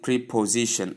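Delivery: "preposition" begun with "pree"; wrong pronunciation. Shown as a demonstration. Teacher warning learners off a wrong form, "preposition" said with "pree". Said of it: "It's wrong".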